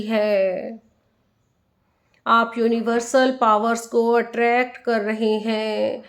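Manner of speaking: unhurried meditation guide, leaving space after each instruction; guided meditation. Acted. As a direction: lead listeners inward, phrase by phrase, letting the endings stretch.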